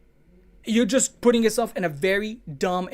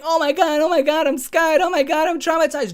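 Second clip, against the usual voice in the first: higher, louder, hammed-up panic; mock panic; 9 semitones higher, 7 dB louder than usual. Mocking scared Twitter users with a hammed-up panicked voice. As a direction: ham up a frightened tweet, repeating oh my God.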